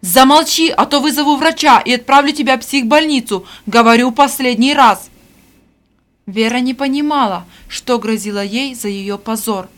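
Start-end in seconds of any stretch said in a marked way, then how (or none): 0.0-5.1 loud threatening order; angry threat. A narrator's reading. Stepmother threatens the girl, loud angry threat. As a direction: threaten her with the asylum.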